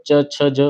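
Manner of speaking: "च, छ, ज" with the tongue touching the palate; teacher models palatal "च, छ, ज". Shown as a demonstration. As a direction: sound out "च, छ, ज" one at a time. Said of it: "जीभ आपके तालु पे टच होनी चाहिए".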